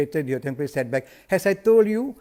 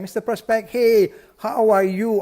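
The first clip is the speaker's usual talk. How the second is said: higher, louder, slowed-down cheery hello; enthusiastic greeting; 5 semitones higher, 4 dB louder than usual. Shown as a demonstration. Agent phoning a prospect, bursting with enthusiasm. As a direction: greet the prospect like you're thrilled to hear him. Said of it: "I'm so enthusiastic".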